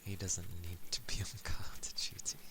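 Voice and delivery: hushed whisper. Real, not acted. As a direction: whisper it as an aside. Aside whispered about the dog.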